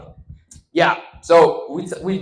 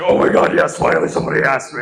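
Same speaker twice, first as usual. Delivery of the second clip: mock excited girls; 2 semitones lower, 6 dB louder, faster than usual. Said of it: "they're just like".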